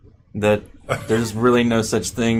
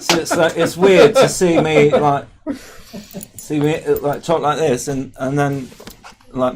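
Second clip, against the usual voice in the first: put-on standard American accent; 5 semitones higher, 4 dB louder than usual. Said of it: "I can do a pretty good American accent".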